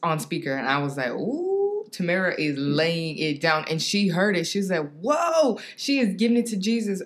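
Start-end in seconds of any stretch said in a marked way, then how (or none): 1.1-3.6 impressed ooh. Retold or imitated. Friend reacts to loud prayer. 5.0-7.0 amazed whoa. Retold or imitated. Friend reacts to loud prayer.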